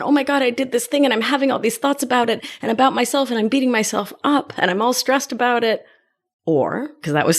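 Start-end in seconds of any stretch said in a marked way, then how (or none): 0.0-5.9 fast, higher, rushed worried rambling; mock anxious spiral. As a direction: rattle it off like a stressed-out mind. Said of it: "get all anxious and worried".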